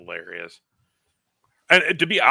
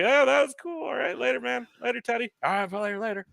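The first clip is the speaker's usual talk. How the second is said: higher awkward starstruck farewell; starstruck goodbye; 13 semitones higher than usual. Retold or imitated. Fan recalling meeting Teddy Long, higher flustered farewell. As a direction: gush goodbye like a nervous fan.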